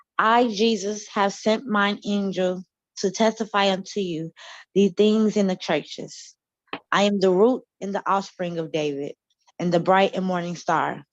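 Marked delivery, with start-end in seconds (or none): none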